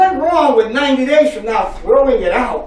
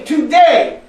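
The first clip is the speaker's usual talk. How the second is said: strong declaration; 4 semitones higher, 5 dB louder than usual. Shown as a demonstration. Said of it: "Repeat after me".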